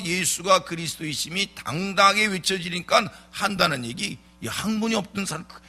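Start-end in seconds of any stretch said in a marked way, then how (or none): 4.4-5.6 higher-pitched, dismissive retort; mock disdain. Preacher imitating council members at Peter and John's words, belittling. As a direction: act out officials scoffing at the unschooled. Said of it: "이렇게 무시하는".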